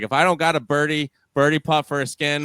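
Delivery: lightly imitated Southern accent. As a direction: quote him in a Southern accent, laid-back. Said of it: "with his Southern accent".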